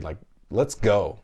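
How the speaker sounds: slow hyped cheer; mock cheer. Dad cheering his son at sight words, slow hype. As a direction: pump the kid up, drawn out. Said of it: "I'm like".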